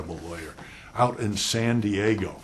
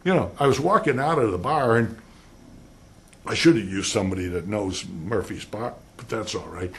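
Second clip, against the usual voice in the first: rambling witness; 3 dB louder than usual. Retold or imitated. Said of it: "and the puppy says".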